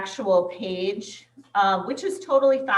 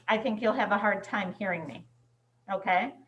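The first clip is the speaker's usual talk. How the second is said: talking from across the room; farther from the mic; 6 dB quieter, faster than usual. Real, not acted. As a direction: voice fading as she walks away. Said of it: "as I walk further away".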